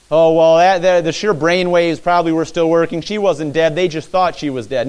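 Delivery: a loud, dismissive skeptic; mocking skeptic. Preacher mimicking a skeptic explaining the miracle away, loud scoffing. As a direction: brush it off like a doubter. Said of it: "Some skeptic could have looked at it and said".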